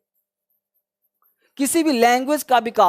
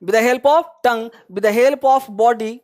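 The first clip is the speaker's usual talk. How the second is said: each word spaced out slowly for students to copy; slow dictation; much slower than usual. Shown as a demonstration. Teacher dictating a definition to the class, slow and spaced.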